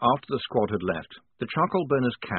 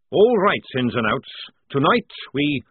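barked order; 4 semitones higher, 6 dB louder than usual. A narrator's reading. Sergeant addresses squad.

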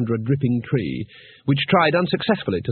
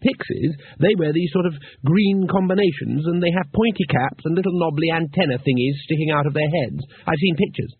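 Two Flower; 4 semitones higher than usual. Acted.

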